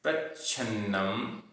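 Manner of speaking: प्रच्छन्नम with a half च held before छ; careful प्रच्छन्नम, doubled chh sound; pronunciation demo. Shown as a demonstration. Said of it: "आधा च छ".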